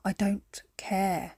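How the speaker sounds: a slow, whispered resignation. Retold or imitated. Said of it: "where you just say".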